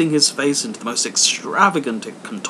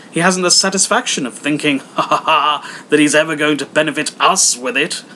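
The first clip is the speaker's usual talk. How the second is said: laughing; 3 semitones higher, 5 dB louder than usual. Acted. Nephew laughing mid-sentence.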